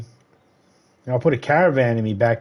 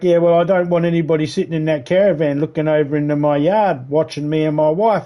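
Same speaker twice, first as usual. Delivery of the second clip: lightly mimicked neighbour, higher pitched; complaining neighbour; 4 semitones higher than usual. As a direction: imitate a neighbour lodging a complaint. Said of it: "Anyway, he's like".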